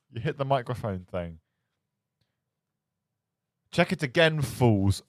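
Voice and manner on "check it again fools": loud hammy taunt; mock shout. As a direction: bellow it like a cartoon villain. Mock villain line to chat.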